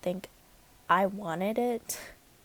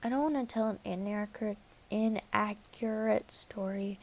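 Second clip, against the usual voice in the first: stuttering; 4 dB quieter than usual. Real, not acted. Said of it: "I'm just stuttering".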